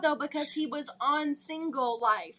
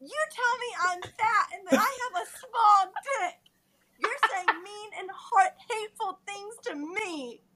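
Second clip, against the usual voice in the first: laughing; 3 semitones higher than usual. Acted. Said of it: "resume our dramatic reading".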